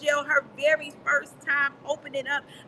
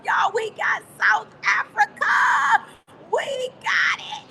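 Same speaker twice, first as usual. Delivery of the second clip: excited shout; 5 semitones higher, 4 dB louder than usual. Real, not acted. Coach shouts the new countries to the call in excitement. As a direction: announce every country like a win.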